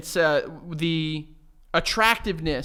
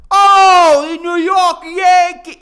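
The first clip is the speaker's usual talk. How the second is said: loud, high, slow Brooklyn Italian caricature; Brooklyn Italian accent; 13 semitones higher, 13 dB louder, much slower than usual. Retold or imitated. Mocking the Brooklyn stereotype, loud high New York accent. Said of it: "Italian from Brooklyn just being like".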